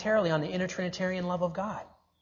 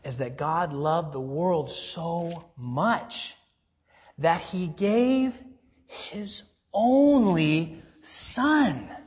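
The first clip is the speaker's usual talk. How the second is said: "his only Son" drawn out word by word; slow build to a weighty "gave his only Son"; astounded emphasis; much slower than usual. Real, not acted. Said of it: "What's truly astounding".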